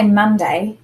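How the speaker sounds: Monday with the first syllable stronger; Monday, emphasis up front on Mon; stress on MON. Shown as a demonstration. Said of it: "we put a little more emphasis on".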